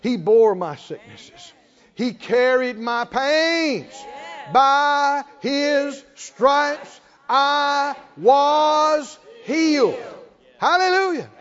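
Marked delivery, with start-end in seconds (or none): 4.5-10.0 "By His stripes I was healed" drawn out very slowly, each word hit loud; emphasize every word. Shown as a demonstration. Preacher showing the church how to stress each word. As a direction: stretch every word and punch it. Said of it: "you can emphasize every word".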